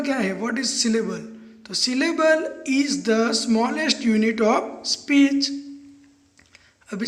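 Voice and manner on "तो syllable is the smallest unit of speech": very slow, word by word; slow dictation. Shown as a demonstration. Teacher dictating the definition to students, very slow. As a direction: dictate it so they can write. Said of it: "teacher dictating definition".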